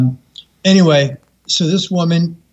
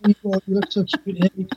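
soft, higher-pitched pet talk; cooing to pets; 4 semitones higher, 5 dB quieter than usual. Retold or imitated. Woman talking to her sugar gliders, cooing. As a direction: imitate someone quietly cooing at a tiny pet. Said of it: "looking down into her chest and talking to her sugar gliders".

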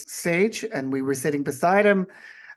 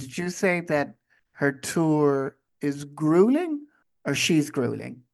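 slow, deliberate question leaning on grueling; pointed clarification; slower than usual. Shown as a demonstration. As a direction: spell out the two meanings carefully. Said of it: "just a point of clarification".

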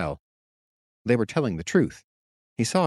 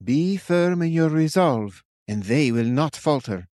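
slow, higher, certain command; with certainty; 7 semitones higher, 3 dB louder, slower than usual. A narrator's reading. Witch charging the captain, certain. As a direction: plant each word firmly. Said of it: "spoke to him with certainty".

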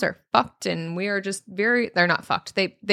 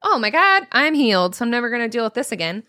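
mock relief; 2 semitones higher than usual. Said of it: "it's not just something like".

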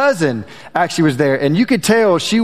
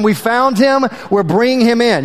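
higher, laughing incredulous echo of the caller; exasperated mock quote; 4 semitones higher than usual. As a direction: parrot his curt words in disbelief. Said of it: "you don't say anything other than".

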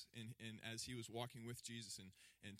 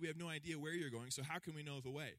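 baffled protest; 4 semitones higher, 4 dB louder than usual. Retold or imitated. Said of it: "Thomas said".

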